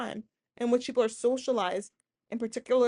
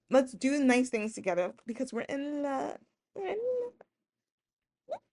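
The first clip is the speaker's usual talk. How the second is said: dreamy seducer; 4 semitones higher, slower than usual. Retold or imitated. Voicing love-bombing seducer.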